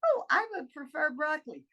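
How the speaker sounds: light, easy preference for broccoli. Shown as a demonstration. Speaker demoing the empowered way to choose food. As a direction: say it like a happy choice. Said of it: "I say".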